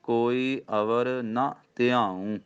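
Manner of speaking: slow ਕੋਈ ਅਵਰ ਨਾ ਧਿਆਊ, nasal ending on ਧਿਆਊ; teacher models ਧਿਆਊ; pronunciation demo. Shown as a demonstration. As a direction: recite slowly, ਧਿਆਊ with its bindi nasal. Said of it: "ਇੱਥੇ ਨੰਨਾ ਮੁਕਤਾ ਹੈ".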